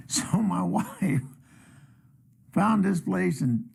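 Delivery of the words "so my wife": laughing through the words; slow start, broken up by a chuckle; chuckling. Real, not acted. Comic starting a story about his wife, chuckling.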